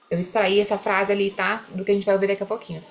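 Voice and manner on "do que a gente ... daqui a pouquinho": usual speaking voice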